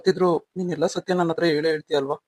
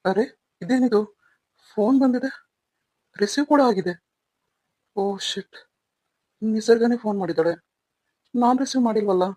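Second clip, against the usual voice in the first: higher, startled realisation that a call was picked up; sudden panicked discovery, higher voice; alarmed surprise; 4 semitones higher than usual. Acted. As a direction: caught off guard, pitch jumps up.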